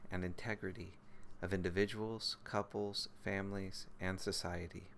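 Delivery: measured, even recitation of a vow; solemn precept recitation. Real, not acted. Teacher reciting a precept for the practice group, solemn recitation. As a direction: recite it phrase by phrase, with composed pauses.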